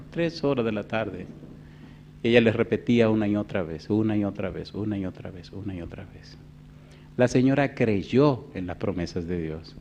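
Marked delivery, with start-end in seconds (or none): 3.1-6.4 each repeat quieter until almost nothing; fading repetition. Real, not acted. Preacher fading out his story's repetition, softer each time. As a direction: let the words fade away.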